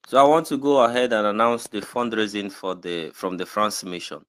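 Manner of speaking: clearly audible, projected announcement. Real, not acted. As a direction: speak up as you announce it. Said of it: "just raise your voice a little bit".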